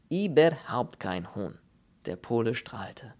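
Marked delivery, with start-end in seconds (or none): 0.1-1.6 slow, louder emphatic foreign voice; emphatic Polish character voice. Acted. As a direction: rule out all chicken with relish. Pole refuses in broken German.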